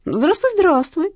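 slow, drawn-out, mocking hello; mock greeting. A narrator's reading. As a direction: stretch each word lazily, menacing. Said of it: "отозвался тот".

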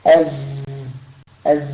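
أذ buzzed with the vocal cords, voice running through the ذ; أذ with a voiced, buzzing ذ; voiced letter demo. Shown as a demonstration. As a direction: hum the ذ in أذ so the voice is heard. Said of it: "شوف لما تقول أذ".

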